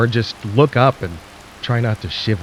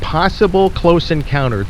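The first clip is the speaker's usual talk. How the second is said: the words sink in and the pitch jumps up; stunned echo; 5 semitones higher than usual. Acted. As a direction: repeat it higher, in disbelief. Host echoes warning in disbelief.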